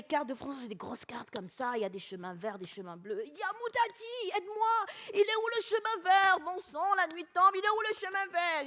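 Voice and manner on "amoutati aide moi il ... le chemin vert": higher-pitched call for help; worried plea. Acted. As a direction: plead higher, as if lost at nightfall. Lost husband pleads for help.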